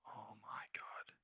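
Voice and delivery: slow, breathless whisper. Real, not acted. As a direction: whisper it in disbelief. Anxious watching the chart.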